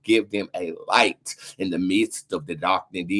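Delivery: low, measured prayer voice. Acted. Leading a prayer for Maui's victims, low and earnest. Prays for Maui.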